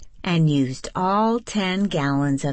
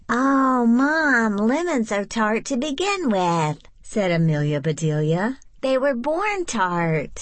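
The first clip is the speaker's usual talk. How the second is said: put-on high eager girl; 7 semitones higher than usual. A narrator's reading. Girl protests to mom.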